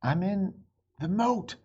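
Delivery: high, loud gasping cry; high loud breathless call. Acted. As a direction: sputter it out, short of breath. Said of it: "gasping for air".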